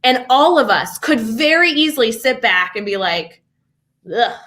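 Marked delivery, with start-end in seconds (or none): 4.1-4.4 short mock groan of defeat; acted sigh of exasperation; exasperated groan. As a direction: give a put-on "ugh" of giving up. Voicing educators who give up.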